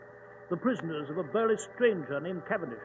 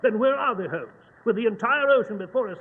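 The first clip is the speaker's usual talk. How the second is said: louder, pressing for an answer; exasperated demand; 5 dB louder than usual. Acted. Lestrade pressing Holmes where they are, exasperated. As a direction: push Holmes hard for the answer.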